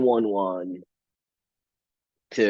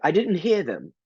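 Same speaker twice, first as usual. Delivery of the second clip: prim British cashier; 7 semitones higher than usual. Retold or imitated. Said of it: "super proper".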